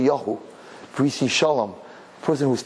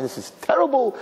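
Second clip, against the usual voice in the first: mock lament; 11 semitones higher than usual. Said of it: "people are crying".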